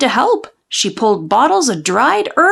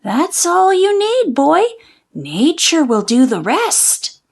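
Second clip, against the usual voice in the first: a hint of a spooky old witch, pitched up; 4 semitones higher than usual. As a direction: cast it like a prophecy, a touch crone-like. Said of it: "she said".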